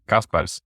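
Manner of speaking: Kaspars with a final s, open first vowel; native name pronunciation. Shown as a demonstration. Guest showing host his name, Kaspars pronounced natively. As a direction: say Kaspars as its owner does, KAHS-parts. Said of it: "said it really good".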